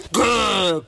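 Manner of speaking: a playful growl from a big dinosaur. Acted. Dinosaur growling at the big skeleton, playful growl. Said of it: "growls the dinosaur".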